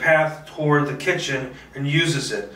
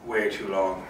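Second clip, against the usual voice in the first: self-mocking mutter; 7 semitones lower, 7 dB quieter than usual. Real, not acted. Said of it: "I am an idiot for taking way too long".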